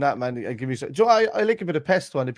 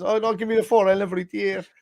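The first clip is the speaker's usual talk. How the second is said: much higher mock voice of a daft fella; 9 semitones higher than usual. Daft pub fella picking four slices, much higher mock voice. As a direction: play it dumb and pitched right up. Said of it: "He says".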